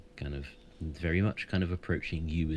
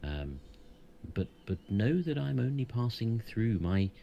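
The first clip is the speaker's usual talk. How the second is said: wise centaur, raised and solemn; proud voice with horse snorts; 5 semitones higher than usual. Acted. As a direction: speak as a proud, ancient centaur. GM holds the centaur's voice.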